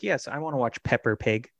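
daughter imitating Boston accent, Pepper. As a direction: Pepper Pig with a dropped Boston R. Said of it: "with a Boston accent".

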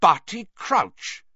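slow, loud shocked naming; stunned exclamation. Acted. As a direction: say it in disbelief. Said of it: "stopping dead in the doorway".

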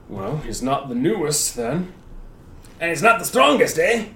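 big gruff warrior voice; hulking warrior. Acted. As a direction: boom it out like a hulking soldier.

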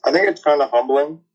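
talking with food in mouth; mouth full. Real, not acted. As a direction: speak through a mouthful of food. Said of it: "Sorry, I got food in my mouth".

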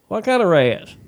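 high, alarmed question. Retold or imitated. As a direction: sound startled and worried. Alarmed question about rats.

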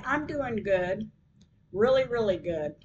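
gushing with good news, slowing to savour it; excited. Retold or imitated. Lawyer telling client the good news, excitedly. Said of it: "Why does he sound really excited?".

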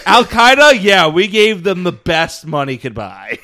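high, loud, laughing mock voice; hammed-up cheerful conspirator; mock family voice. Continuing the family impression.

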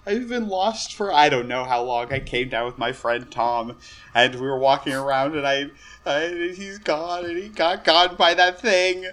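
hesitant tearful storyteller, rising at the end; frightened, lost Tom. Acted. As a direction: recount it as a scared survivor.

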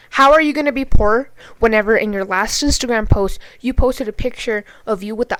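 loud, incredulous challenge; indignant. Real, not acted. Angrily challenging the shooter's claim.

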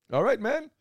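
high, drawn-out hype call; hype greeting. Acted. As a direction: stretch the greeting way up. Hyped podcast greeting.

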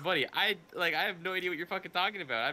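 high-pitched retold protest of innocence; bewildered denial. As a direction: imitate a baffled stoner pleading ignorance. Retells stoned denial to accusers.

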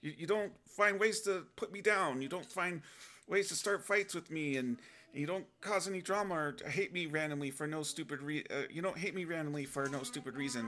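comic overwrought protest to wife; whiny exaggerated grievance; exasperated complaint. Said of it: "I was like".

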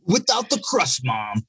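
mock whiny kid. Mocking kid asking mom.

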